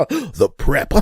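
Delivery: loud devilish gloat amid cackles; evil clown. Acted. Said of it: "an evil clown or a devil".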